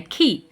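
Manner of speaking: खी said short and dropped at once, like a dot; short i sound. Shown as a demonstration. Teacher showing parents the short i in खी, cut off short. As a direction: say खी quick and let go of it. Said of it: "एकदम बोलना है, छोड़ देना है".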